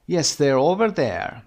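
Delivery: slow, stress on "over there"; rhythm model. Shown as a demonstration. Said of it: "copy the rhythm". (ریتم پاسخ با تأکید)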